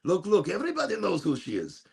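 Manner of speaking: imitating mom. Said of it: "she says".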